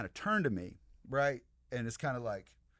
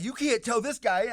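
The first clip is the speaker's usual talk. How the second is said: mock exasperation; 12 semitones higher, 8 dB louder than usual. Retold lawyer exclaims about boss.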